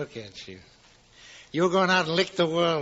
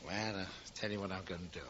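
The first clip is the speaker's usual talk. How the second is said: tag only; 6 semitones lower, 15 dB quieter, faster than usual. Acted. Potter's sly menace.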